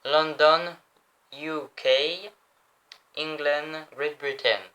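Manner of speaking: slow, separated words in an English accent; French speaker putting on an English accent. Shown as a demonstration. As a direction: read it out in showy English pronunciation. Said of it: "je vous lis tout en anglais".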